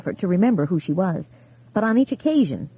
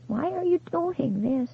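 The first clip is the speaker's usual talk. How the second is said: higher, pleading and scared; frightened pleading; 8 semitones higher, 6 dB quieter, slower than usual. A narrator's reading. Widow begs the caller to stop, frightened and high. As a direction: plead with rising fear.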